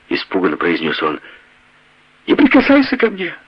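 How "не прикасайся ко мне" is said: much higher shrieking cry, laughing through it; giggling shout. A narrator's reading. Wife screams at her husband, giggling hysterically. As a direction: scream it while giggling uncontrollably. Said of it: "крикнула она, неудержимо хихикая".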